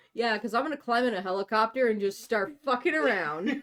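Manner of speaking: laughing. Real, not acted. Sarcastic laughing aside.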